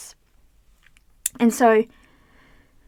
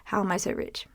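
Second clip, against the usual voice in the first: soft question; 3 semitones lower, 8 dB quieter than usual. Shown as a demonstration. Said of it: "I could still just go and say".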